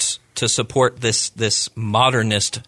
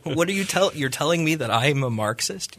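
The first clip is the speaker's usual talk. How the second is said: higher-pitched incredulous retort, half laughing; amused disbelief; 5 semitones higher than usual. Retold or imitated. Libertarian editor retorting to an apologist who calls him Marxist, amused disbelief. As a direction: imitate someone laughing off an absurd accusation. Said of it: "laughing with this guy, like, going".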